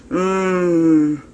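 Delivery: long appreciative mmm; drawn-out hum of enjoyment; savouring mmm. Real, not acted. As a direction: hum mmm at a lovely smell. Savouring the soap's smell.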